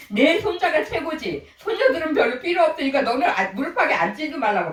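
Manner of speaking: mock grandmother. Voicing a grandmother who favours grandsons.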